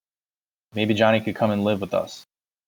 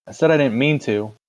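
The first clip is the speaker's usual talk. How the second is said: upset insistence; 5 semitones higher, 3 dB louder than usual. Acted. Boy insists to brother.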